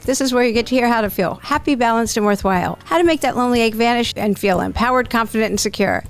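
upbeat announcer read over music; podcast intro read. Acted. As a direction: sell the show like a host intro.

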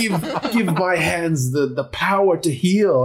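solemn prayer. Acted. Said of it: "clasp my hands and be like".

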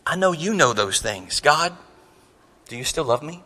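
subdued acted prayer; humbled plea. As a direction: ask God softly, with pauses. Acted prayer drops to humbled question.

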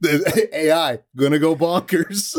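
hard sell ad pitch; fast, pushy salesman voice; used car salesman. Retold or imitated. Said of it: "like a used car salesman".

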